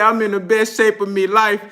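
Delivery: lightly mimicked British accent; Kell Brook accent. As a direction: quote it in a hint of a British boxer's accent. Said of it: "in no other accent but Kel".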